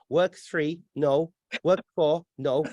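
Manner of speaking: lightly voiced robot searching its files; a hint of glitching robot recital; malfunctioning robot. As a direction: mimic a machine running through options. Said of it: "It's a malfunctioning robot".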